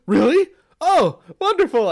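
loud, high chirpy delight; mock delight. Father imitating daughter's sudden cheer, loud and high. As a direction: ham up her instant cheer. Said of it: "She's like, gasps".

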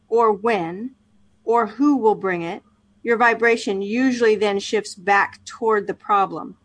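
steady book-reading voice; reading aloud. Acted. Co-host reads the book chapter aloud on the podcast, measured reading voice. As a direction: read the passage to a listener, evenly.

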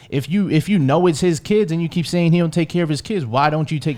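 rising heated questioning. Real, not acted. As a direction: press her hard, getting worked up.

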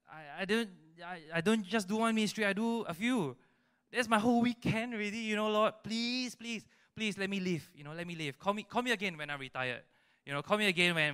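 high-pitched, hammed-up pleading; mock begging that starts high and eases down; whining to God. Servant begging God to delay the call, whining plea. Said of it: "when we whine to him".

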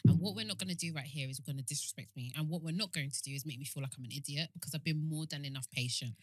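low, brisk, measured reprimand; condescending telling-off. Acted. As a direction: lay down terms with strained patience. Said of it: "I'll be like this".

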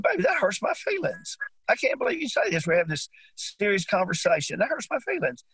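high whiny mock-wounded complaint; mock hurt. Husband teasing wife back, high mock-hurt whine.

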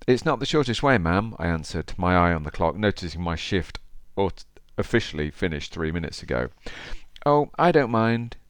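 storytelling read aloud; story narration. Acted. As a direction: read it like an audiobook. Reads the cabbie story aloud.

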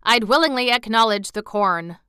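put-on old gentleman. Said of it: "replied the old gentleman".

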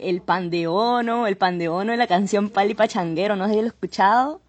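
put-on describes food in her Cali Colombian accent. Guest keeps up the Colombian accent for the host, Cali Colombian accent. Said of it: "haznos el acento colombiano".

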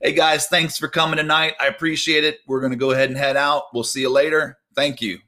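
mock casual goodbye to the guys; casual Jesus sending-off. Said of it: "So he basically said".

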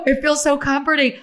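sighing, emotional "so comforting"; comforted. Real, not acted. Recalling hometown jingles on local TV, comforted. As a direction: overcome by homesick comfort.

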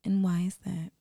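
calm probing therapist question, repeated; gentle, slow counselor tone. Acted. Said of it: "'Cause of that damn voice".

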